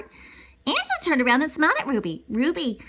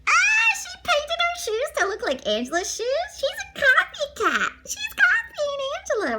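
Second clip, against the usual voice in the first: mock teasing. Teller mocking aside, high voice.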